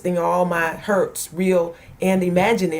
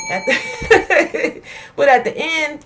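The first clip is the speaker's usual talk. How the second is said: choked up; 6 semitones higher, 4 dB louder than usual. Real, not acted. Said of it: "it kinda gets me still".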